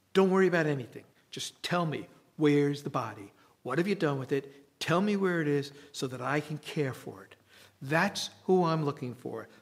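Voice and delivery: exasperated demand. Acted. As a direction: push him hard for an answer. Mary demands the body from gardener.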